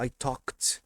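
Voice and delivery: slow talked ending in "kt". Shown as a demonstration. Teacher giving another example, talked as "tokt". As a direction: release a crisp T to end talked. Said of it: "vai ter som de T".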